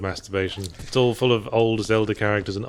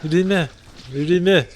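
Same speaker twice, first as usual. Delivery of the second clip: put-on Liverpool accent that slips toward Birmingham; 7 semitones higher, 3 dB louder than usual. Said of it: "My Liverpool accent sounds too much like my Birmingham accent".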